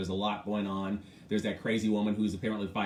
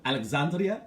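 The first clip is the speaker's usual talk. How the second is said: Alexandria Ocasio-Cortez with Spanish vowels and rolled R's, said higher; Spanish pronunciation; 4 semitones higher than usual. Shown as a demonstration. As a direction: say Ocasio-Cortez the way they do in Spain. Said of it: "I can do it too".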